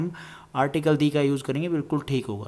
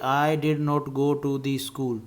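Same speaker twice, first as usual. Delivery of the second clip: wrong form dictated; much slower than usual. Shown as a demonstration. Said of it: "गलत होता है".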